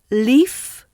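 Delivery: Leaf with a clear L at the front of the mouth; tongue tip forward for the L of Leaf. Shown as a demonstration. Teacher starts word pairs, Leaf with a clear, front L. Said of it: "is clear".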